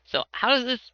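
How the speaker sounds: high eager question; excited high voice. Acted. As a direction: blurt it out, bouncing. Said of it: "He's like".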